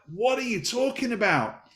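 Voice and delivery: father confused by his crying son; baffled. Retold or imitated. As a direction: act taken aback. Father baffled by son's fear.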